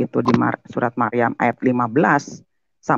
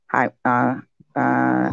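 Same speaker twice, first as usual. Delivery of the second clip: ordinary talk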